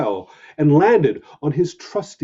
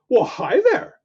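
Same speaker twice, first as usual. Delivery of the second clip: higher, shy little voice; tiny skunk voice; 8 semitones higher, 3 dB louder than usual. Acted. Shy skunk greeting the puppy in a tiny voice. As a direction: speak small like a timid skunk. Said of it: "said the skunk in a tiny voice".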